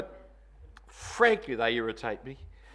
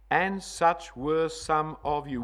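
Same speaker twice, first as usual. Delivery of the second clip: "And such were some of you" read slowly; 5 dB louder, slower than usual. Shown as a demonstration. Preacher reading the verse slowly to the church. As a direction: read the verse slowly, weighing each word. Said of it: "Past tense".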